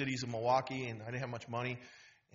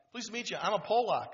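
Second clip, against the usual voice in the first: eager friendly greeting; 8 semitones higher, 3 dB louder than usual. Retold or imitated. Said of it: "He puts his hand out".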